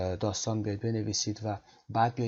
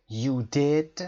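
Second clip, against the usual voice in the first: rising, surprised "You did"; surprised rising tune on "You did"; 3 semitones higher, 4 dB louder than usual. Shown as a demonstration. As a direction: sound amazed on "You did", voice going up. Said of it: "صدامون رو بردیم بالا، سرپرایز داریم".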